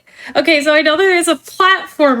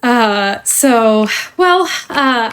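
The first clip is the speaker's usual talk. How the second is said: polished corporate trainer voice; cheerful company onboarding spiel; customer service voice; slower than usual. Acted. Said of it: "let me put away my customer service voice now".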